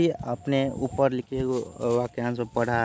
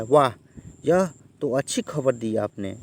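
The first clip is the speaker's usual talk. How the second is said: a demo of pleased surprise at good news; surprised exclamation; 3 dB louder than usual. Shown as a demonstration. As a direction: read it as delighted surprise, with a louder वाह. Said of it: "आश्चर्य से बोला".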